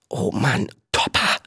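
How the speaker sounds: soft, worried whisper. A narrator's reading. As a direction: whisper a plea to a friend. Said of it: "flüsterte Viggo". (besorgt geflüstert)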